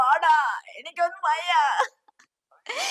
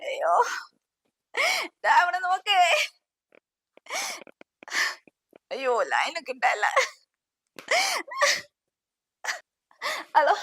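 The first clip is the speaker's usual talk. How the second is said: tearful, higher calls into the phone; crying out in panic for help; sobbing plea down a bad line; panicked crying; 4 semitones higher than usual. Panicked call over friend's body.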